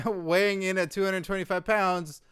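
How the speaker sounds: mock wrestling introduction; ring announcer. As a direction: hold the last word long, inviting an answer. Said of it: "say, Tony Chimel or Lillian Garcia".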